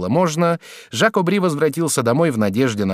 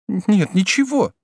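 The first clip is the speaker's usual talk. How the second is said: high, drawn-out woman's voice; hesitant woman; 10 semitones higher, 3 dB louder, slower than usual. A narrator's reading. Woman reassures lover at judge's door, hesitant. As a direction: answer slowly in a lifted, faltering voice.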